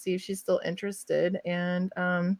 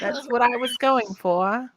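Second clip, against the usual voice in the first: put-on slow pop-group British; drawn-out mock-British reply; British accent; 3 semitones higher, slower than usual. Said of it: "You sound like a pop group".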